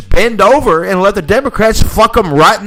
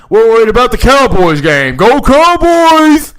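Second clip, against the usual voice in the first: mock fan cheer; 3 semitones higher, 4 dB louder than usual. Mocking football fans.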